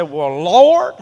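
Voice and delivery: pleading with the Lord over the car insurance; retold desperate prayer. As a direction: cry out to God about the bills, then fade. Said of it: "I said".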